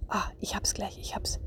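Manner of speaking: soft, breath-held searching; play-acting. Shown as a demonstration. Mother hunting the anger dwarf for her child, hushed. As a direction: act out a hushed, careful hunt. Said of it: "ich stell's jetzt wirklich mal so dar".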